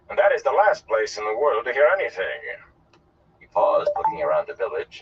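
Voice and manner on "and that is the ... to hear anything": theatrical dismissal, pitched up; lofty, emphatic put-down; dismissive. Acted. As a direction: scoff grandly at the backwater. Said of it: "the Gleeman said dismissively".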